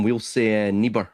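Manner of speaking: neighbour said nee-bur, Scottish. Shown as a demonstration. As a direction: neighbour the way Glaswegians say it. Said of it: "what we say instead of fam".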